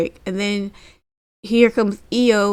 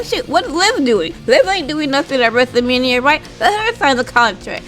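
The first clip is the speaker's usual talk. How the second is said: mocking rant; 6 semitones higher, 3 dB louder than usual.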